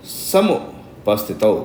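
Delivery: समुपस्थितौ spelled out slowly; slow it down so they can follow; slow recitation. Shown as a demonstration. Teacher demonstrating verse word. (धीमा उच्चारण)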